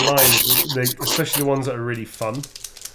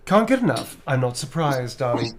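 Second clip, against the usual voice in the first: sassy vampire line. Acted. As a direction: tease him, sassy and pleased. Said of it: "I remember how I did it".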